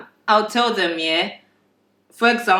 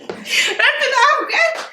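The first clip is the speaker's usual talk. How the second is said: laughing, higher, through giggles; 12 semitones higher than usual. Real, not acted. Restarting the take for the camera, laughing. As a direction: crack up while restarting the take. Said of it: "let's start again".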